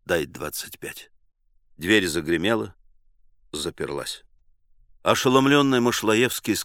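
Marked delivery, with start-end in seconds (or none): 0.0-1.1 much softer, low aside; whispered aside to a friend. Acted. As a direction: murmur it to Karas. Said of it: "шепнул Карасю".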